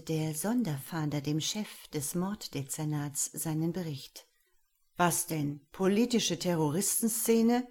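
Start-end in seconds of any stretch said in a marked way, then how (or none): 5.0-7.7 mildly incredulous question; a touch of disbelief, louder. Acted. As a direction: chief doubting the investigator's report. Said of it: "fragte dieser ungläubig".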